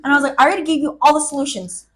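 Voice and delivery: retold telling-off with loud bursts; fed-up scolding. Scolding a sobbing friend over her problems, fed up. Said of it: "I'm, like, screaming at her 'cause I'm so fed up".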